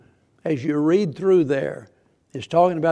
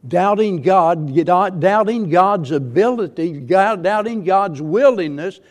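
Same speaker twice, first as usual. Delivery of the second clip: preaching emphasis; 3 semitones higher, 6 dB louder than usual. Real, not acted.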